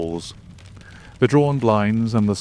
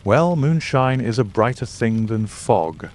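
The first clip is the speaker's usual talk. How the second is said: ordinary delivery, nothing marked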